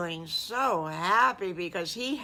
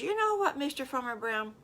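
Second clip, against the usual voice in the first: Little Bad Wolf; 6 semitones higher, faster than usual. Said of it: "Little Bad Wolf says".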